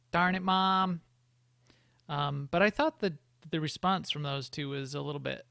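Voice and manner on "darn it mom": higher, louder mock pout; mock angry. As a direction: play it as a sulky teen. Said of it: "she was angry at her mom".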